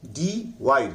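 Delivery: "डिवाइड" as डी plus वाइड, w sound; two parts. Shown as a demonstration. Teacher joins two parts for students, "डिवाइड" as डी-वाइड. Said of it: "दो word मिला के एक हो गया".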